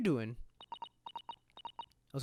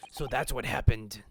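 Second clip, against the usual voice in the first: put-on line said in a Russian accent; 6 semitones lower than usual. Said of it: "You turned Russian for a second".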